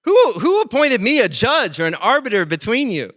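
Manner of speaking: lightly voiced Jesus pushing the question back; Jesus, mildly exasperated. Pastor voicing Jesus turning down the brother, mildly exasperated. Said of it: "He's like".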